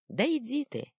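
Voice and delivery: high, loud brush-off; dismissive yell. Acted. Second boy yelling at his friend mid-scuffle. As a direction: shove the words at him.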